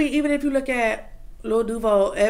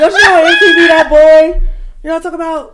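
laughing; 6 semitones higher, 15 dB louder than usual. Real, not acted. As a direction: ask it through laughter. Laughing while asking.

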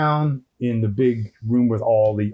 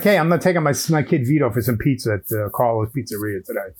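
lightly put-on Brooklyn accent; a hint of old-school Brooklyn, punched at the start. Parent talking about pizza for his kid, light Brooklyn accent. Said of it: "like, a Brooklyn accent here".

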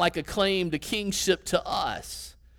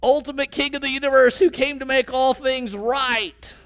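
raised, higher mock call to a king; imagine the blind beggar crying it out, a little louder; mock yelling out; 5 semitones higher, 4 dB louder than usual. Preacher voicing the beggar hailing Jesus, mild mock yell. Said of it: "he might as well be yelling out".

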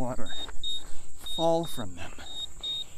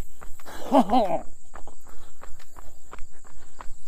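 breathy laugh; 7 semitones higher than usual. Real, not acted. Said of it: "outrageous French accent".

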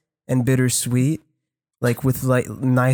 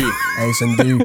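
calling out; 2 semitones lower, slower than usual. Pretend. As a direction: shout across a bar. Calling out like the couple.

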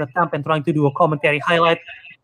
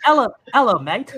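put-on Aussie greeting; attempted Australian accent; 3 semitones higher than usual. Testing website tips on co-hosts, attempted Australian accent. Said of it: "I'm going to try to Australian accent".

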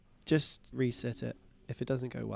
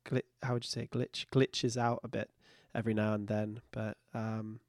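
slightly wrong copied voice; 3 semitones lower, 4 dB quieter than usual. Retold or imitated. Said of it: "I can really mimic your voice really, really well".

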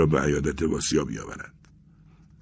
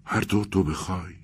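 mysterious; 4 semitones higher than usual. A narrator's reading. Vasya yields to his friend's wishes, mysteriously. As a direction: give in with a touch of mystery. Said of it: "واسیا با لحن مرموزی گفت".

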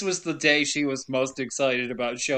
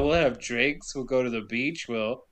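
mock sexy pitch; 5 semitones lower, 4 dB quieter than usual. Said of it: "She does a sexy tongue roll".

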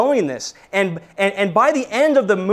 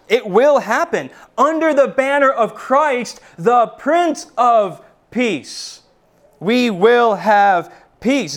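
proclaiming; 3 semitones higher than usual. Real, not acted. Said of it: "preacher proclaiming peace".

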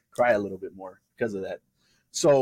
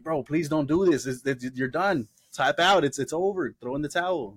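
begging brother; 5 semitones higher than usual. Retold or imitated. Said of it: "He's like".

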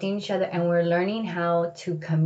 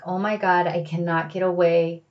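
rising, louder panicked inner voice with a laugh; trapped in the car, fretting to herself; panicked thoughts; 4 dB louder than usual. Retold or imitated. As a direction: spiral into a half-laughing panic. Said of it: "I was like".

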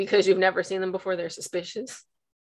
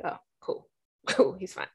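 sheepish; 5 dB quieter than usual. Retold or imitated. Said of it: "It's like".

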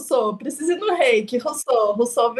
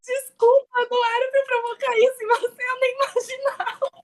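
mock apology; 12 semitones higher than usual.

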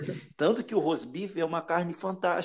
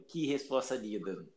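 moved, holding back tears; 6 semitones lower than usual. Real, not acted. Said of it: "você sabe que eu sou chorão pra caralho".

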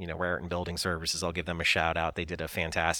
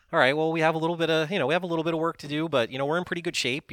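retold relief; 10 semitones higher, 5 dB louder, faster than usual. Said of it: "it was like".

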